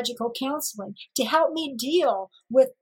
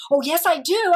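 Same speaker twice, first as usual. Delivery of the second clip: indignant retort; 5 semitones higher, 5 dB louder than usual. Retold or imitated. Retorting to the surgeon.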